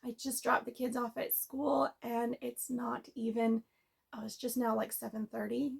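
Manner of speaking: just woke up, voice still groggy; early morning voice, barely warmed up. Real, not acted. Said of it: "excuse my morning voice".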